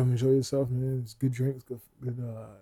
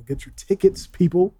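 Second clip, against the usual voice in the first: announcer call; 5 semitones higher, 7 dB louder than usual. Real, not acted. Plugging the show.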